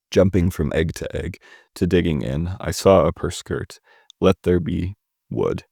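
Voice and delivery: measured poetry read-through, pausing between phrases; poem reading. Acted. Reviewer reads a poem aloud for listeners, measured recital. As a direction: read the poem line by line, unhurried.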